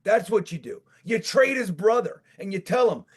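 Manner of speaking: mock tirade climbing to a shout; angry mock retort. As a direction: tell the coach off, building to a yell. Imagined retort to the coach.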